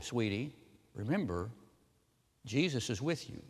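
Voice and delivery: soft, soothing mother voice; very quiet. Retold or imitated. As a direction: gently hush a child, softly. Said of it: "she very quietly says to him".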